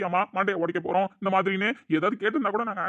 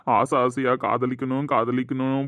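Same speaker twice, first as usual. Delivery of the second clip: mock wailing lament; 5 semitones lower than usual. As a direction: wail over him like a mourner, overplayed. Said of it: "ஒப்பாரி வச்சுக்கிட்டு இருக்கீங்க".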